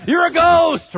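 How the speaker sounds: high, loud terrified shout; yelling in fear. Retold or imitated. Disciples yell in terror, thinking Jesus is a ghost. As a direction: scream it at the apparition. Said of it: "They start yelling".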